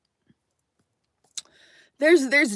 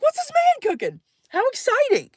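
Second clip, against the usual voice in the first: mock excitement; 11 semitones higher than usual. Mock excited inner thought.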